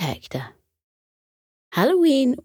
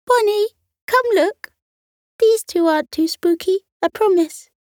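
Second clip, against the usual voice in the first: calling out; 13 semitones higher than usual. Acted. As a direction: call to her sister inside. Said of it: "She called into the house".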